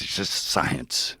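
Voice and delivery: slow, hushed matter-of-fact reassurance; calm healer. Retold or imitated. Healer calmly reassuring the patient, slow hushed reply. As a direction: shrug it off slowly. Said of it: "like that".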